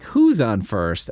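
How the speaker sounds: slow, each word stretched; drawn-out who's on first. Retold or imitated. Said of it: "except it's like".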